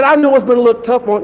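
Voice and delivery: talking with a drooling mouth; wet, drooly speech. Real, not acted. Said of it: "I'm drooling and dripping".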